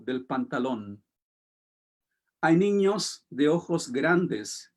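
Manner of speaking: measured, deliberate poetry recital; reading a poem aloud to a small audience, unhurried. Acted. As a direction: let each line land, pausing between images. Reads her Spanish poem aloud.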